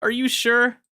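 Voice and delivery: high, teasing "are you sure?" needling; mocking disbelief. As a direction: push him with a high, mocking doubt. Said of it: "And I'm just like".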